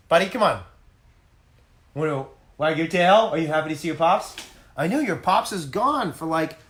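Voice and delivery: a light sing-song coo to a pet; talking to the dog. Real, not acted. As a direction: coax the dog gently. Owner cooing to his dog.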